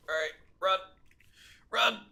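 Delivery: urgent yell to run. Real, not acted. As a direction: shout it as you flee. Fleeing an animal, yelling.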